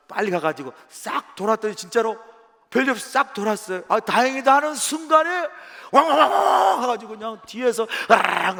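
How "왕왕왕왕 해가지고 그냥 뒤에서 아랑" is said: mock dog barking. Dog suddenly attacks from behind.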